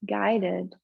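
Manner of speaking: unhurried yoga relaxation voice with long pauses; slow-paced, settled breathing guidance; guided meditation. Real, not acted. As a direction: ease them gently into stillness, leaving space between phrases. Leads meditation in the pose.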